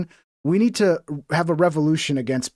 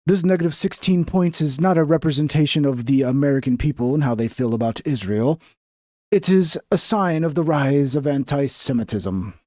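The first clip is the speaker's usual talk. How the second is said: measured mock reporter delivery; investigative journalist voice. Shown as a demonstration. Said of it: "my investigative journalist voice".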